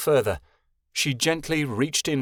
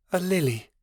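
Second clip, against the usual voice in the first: happy; 5 semitones higher than usual. Acted. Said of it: "she thought happily".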